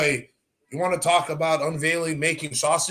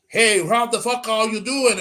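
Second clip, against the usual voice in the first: slow, louder mock Boston greeting; higher, hearty Boston accent; 5 semitones higher, 5 dB louder than usual. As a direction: imitate a brash Boston guy, drawn out. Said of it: "Guy came from fucking Boston".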